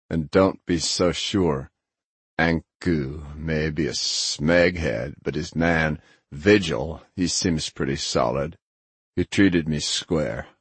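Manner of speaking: slow, mildly gruff character voice; lightly voiced Grinner, frank. Grinner vouches for Vigil to his friend, slow and frank. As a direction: weigh each judgment slowly, a touch gruff.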